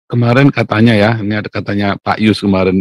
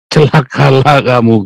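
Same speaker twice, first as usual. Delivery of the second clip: slow, louder condemning pronouncement; stern woe; 3 semitones higher, 7 dB louder, slower than usual. Retold or imitated. Jesus condemning the Pharisees, slow and stern. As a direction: thunder the curse slowly at hypocrites. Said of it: "Yesus kalau ngomong sama orang Farisi".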